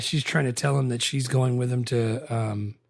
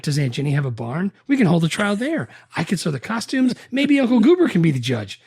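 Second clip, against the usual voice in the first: rising, higher mocking sarcasm; sarcastic; 5 semitones higher, 3 dB louder than usual. Cruise ridiculing the lawyer's plan, sarcastic and rising. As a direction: build the mockery higher and louder. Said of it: "so sarcastically goes".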